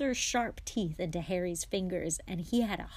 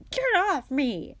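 high, loud, slowed gnome squeal; a small creature yelling to be let go; 9 semitones higher, 9 dB louder than usual. Acted. Gnome being swung shrieks to be put down, high and loud.

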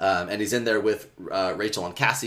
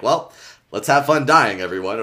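mock-cheery, raised and louder on the first words; flippant quip; 6 dB louder than usual. Imitating Marco's usual joke before the mission, flippant. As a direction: toss it off like a glib one-liner.

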